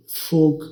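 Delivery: फोग with a closed o like Hindi "fog"; wrong pronunciation. Shown as a demonstration. Teacher showing students the common mistake, closed o. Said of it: "इसको गलत pronounce भी किया जाता है".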